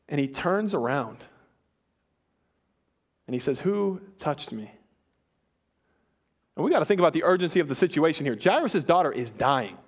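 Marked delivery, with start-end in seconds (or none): 3.6-4.7 slow, soft question from far inside; hushed question. Acted. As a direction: let it hang quietly, searching the crowd. Jesus stops, turns, asks.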